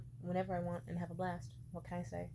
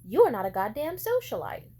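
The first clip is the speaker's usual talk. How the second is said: retold mom rant; 2 semitones higher, 6 dB louder than usual. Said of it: "went on a rant where she was just like".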